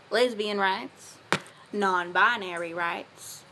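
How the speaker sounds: put-on light southern accent, a loving dad giving affirmations; a hint of a Southern cowboy father, sincere; lightly done Southern dad accent with a folksy touch; Scooter McMacintosh southern dad. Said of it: "come back with a southern accent".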